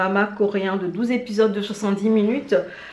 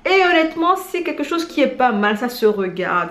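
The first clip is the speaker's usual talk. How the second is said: high, loud burst of enthusiasm; excited; 5 semitones higher, 4 dB louder than usual. Real, not acted. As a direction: sell it with sudden excitement. Enthusiastic verdict.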